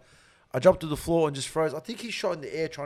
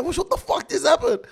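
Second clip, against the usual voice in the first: mock shock; 12 semitones higher, 6 dB louder than usual. Retold shock after shooting.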